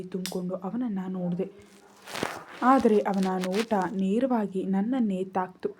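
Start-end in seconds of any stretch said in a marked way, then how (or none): none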